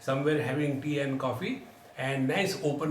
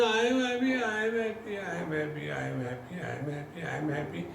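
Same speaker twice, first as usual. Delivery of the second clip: changing tone; 4 dB quieter, much faster than usual. Retold or imitated. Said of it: "slowly started changing".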